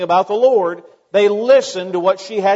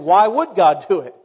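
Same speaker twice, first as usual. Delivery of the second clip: louder, sceptical challenge on WOULD; doubting attitude; 6 dB louder than usual. Acted. Preacher voices the congregation's weak faith, doubting. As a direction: question it doubtfully, hitting "would". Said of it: "we have the attitude of".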